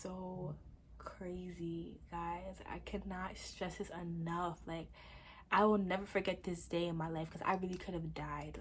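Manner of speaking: whispered, intimate aside to viewers; hushed confiding. Real, not acted. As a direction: lean into the mic and whisper it. Confides the near-death to viewers.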